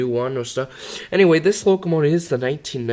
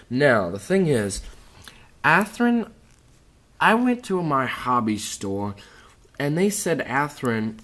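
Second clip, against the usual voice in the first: chewing gum; 2 semitones higher than usual. Real, not acted. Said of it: "I have gum in my mouth, just to let you know if I'm talking a little weird".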